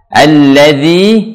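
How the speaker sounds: "Alladzi" slow, DZ with tongue between teeth; tongue-tip zal. Shown as a demonstration. Teacher showing learners the letter zal, tongue-tip "Alladzi". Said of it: "pastikan lidahnya keluar".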